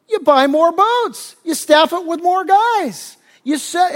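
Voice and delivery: high, loud, drawn-out proclaiming; slow, hammed-up enthusiasm; mock excited pitch. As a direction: act out a businessman hammering home his grand plan. Businessman's escalating pitch, acted out.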